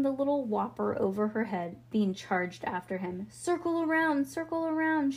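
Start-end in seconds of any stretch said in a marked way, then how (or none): 3.3-5.1 mild shriek. A narrator's reading. Bean charging after Leo, mild shriek. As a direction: lift it high like a held-back shriek. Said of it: "she shrieked".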